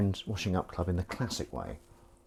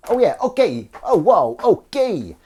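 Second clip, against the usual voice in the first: higher and louder startled reaction; taken aback, higher and louder; surprised; 10 semitones higher, 9 dB louder, slower than usual. Real, not acted. Reacting to something unexpected.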